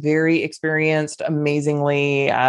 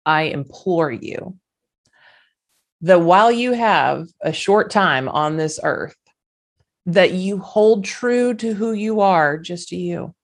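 emotional. Real, not acted. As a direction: hold back tears, pleading gently. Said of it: "I'm gonna get emotional".

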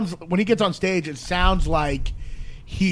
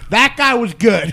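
mock drunk compliment; 4 semitones higher, 6 dB louder, slower than usual. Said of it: "he goes".

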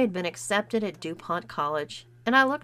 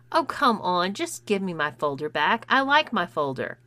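pleading; 4 dB louder than usual. Acted. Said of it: "I pleaded".

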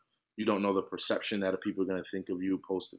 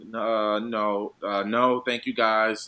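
imitated hesitation; 4 dB louder, much slower than usual. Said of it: "hesitates and it's like".

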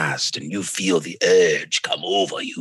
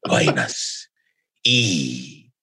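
creepy whisper; 3 semitones lower, slower than usual. Acted. Spooky eating-people bit.

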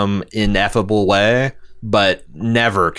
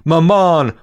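a kid's plaintive call, imitated; mock child calling; 8 semitones higher, 4 dB louder than usual. Reading a fan's gripe, imitating young Picard calling. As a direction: call out like a lost little boy. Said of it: "calling back".

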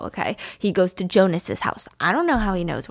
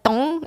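imitated bonk; 6 semitones higher than usual. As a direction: voice a light hit on the head. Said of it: "the way he bonks him is like".

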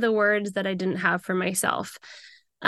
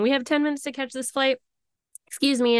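urgent; 5 semitones higher, faster than usual. Retold or imitated. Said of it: "we both were saying".

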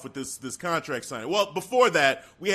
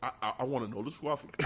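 quiet Roman; 6 semitones lower, 12 dB quieter, much faster than usual. Acted. Roman voiced quiet, fast.

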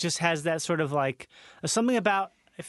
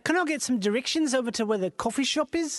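higher-pitched New Zealand tourist; New Zealand accent; 4 semitones higher than usual. Acted. Tourist asking directions to a coffee shop, New Zealand accent. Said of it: "I'll be New Zealand".

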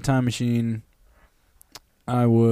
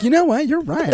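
high-pitched, loud comic epiphany; mock sudden realization; 13 semitones higher, 5 dB louder than usual. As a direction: burst out high and loud, as Britney. Acted sudden realization by Britney.

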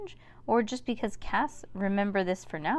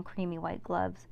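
ordinary delivery, nothing marked

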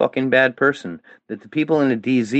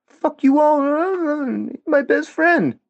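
mocking Owen. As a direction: sneer it out as a whiny, outraged buddy. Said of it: "Even Owen was like".

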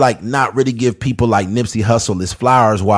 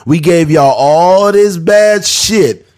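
news anchor; 3 semitones higher than usual. Retold or imitated. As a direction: announce it like the evening news. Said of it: "It's just like watching the news".

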